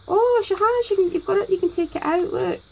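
high, thrilled gush over a handmade gift; excited, voice rising. Real, not acted. Opening a parcel from Denise, voice climbing high with excitement. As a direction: squeal it out in delight. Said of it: "my voice is getting higher".

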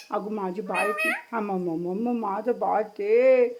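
tender cooing. Real, not acted. Cooing to her pet as baby.

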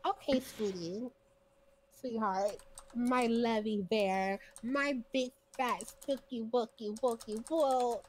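slow, syrupy mock sweetness, pet names drawn out; mock loving tone. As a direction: pour on fake tenderness for her mother. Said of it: "a little more loving tone".

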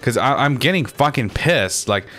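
real exasperated anger; pissed off. Real, not acted. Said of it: "I'm seriously getting pissed the fuck off".

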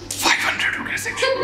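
high, laughing whisper; giggling whisper. Retold or imitated. Classmate whispering a joke to Pradeep, giggling.

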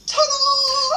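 high, loud showy announcement; big cheerful reveal. Retold or imitated. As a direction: present yourself like a magic trick. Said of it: "I go".

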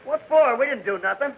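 high, indignant protest; alarmed protest. Acted. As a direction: protest your innocence, high and fast. Protesting arrest, high pitched.

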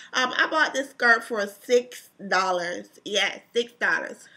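blocked nose, stopped up; stuffy nose. Real, not acted. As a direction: talk through a stuffed-up nose. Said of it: "Oh, I sound so bad".

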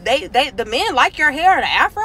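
high, surprised "Really?" with a rising question; taken aback. Retold or imitated. Stylist doubting what the men like, surprised. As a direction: play the woman caught off guard. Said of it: "she was taken aback".

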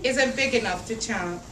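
lively picture-book read-aloud; reading to children. A narrator's reading. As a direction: read it out for a room of little kids. Reads picture book to kids.

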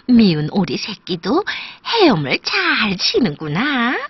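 admiring storybook mother duck with big pitch swoops; delighted, sing-song admiration; pleased mother duck. Acted. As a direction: marvel proudly, stretching and swinging the words. Mother duck admires swimming duckling.

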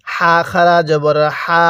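"হা" with a light stream of air, held long; slowly recite, letting air out on "হা"; drawn-out "হা" pushed through with breath; airy Arabic ha. Shown as a demonstration. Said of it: "মুখের মধ্যে হালকা বাতাস বের করবেন".

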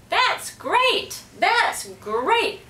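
high, boastful parrot squawk; bragging parrot. A narrator's reading. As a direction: show off like a proud parrot. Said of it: "bragged Petey".

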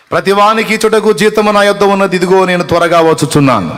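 a preacher shouting a Bible verse at full force; proclaiming scripture. Acted. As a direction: thunder the verse out to the congregation.

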